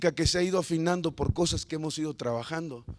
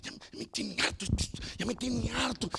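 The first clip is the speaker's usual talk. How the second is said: fed-up grumble; 6 semitones higher than usual. Retold or imitated. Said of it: "me levanto molesto".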